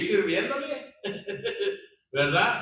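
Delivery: a short real laugh into the word; light laugh while asking. Real, not acted. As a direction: chuckle through it. Preacher laughs mid-remark.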